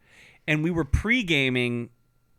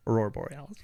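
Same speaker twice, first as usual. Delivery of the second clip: movie quote voice; 4 semitones lower, 5 dB quieter, faster than usual. Shown as a demonstration.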